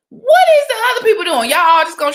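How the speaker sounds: whispered, high in disbelief; incredulous whisper. Real, not acted. Host asking viewers where the other voters are, whispering. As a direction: hush it like a shocked secret.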